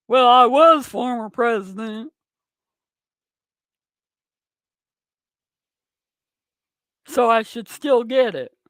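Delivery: a rough, half-hearted hillbilly take on Donald Trump; shitty hillbilly Trump imitation. Mocking Trump's excuse for his viewers, in a bad hillbilly imitation. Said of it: "My shitty hillbilly imitation".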